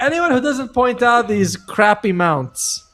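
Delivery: laughing through the words, slowed and high. Pretend. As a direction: giggle out the complaint. Joking complaint, laughing.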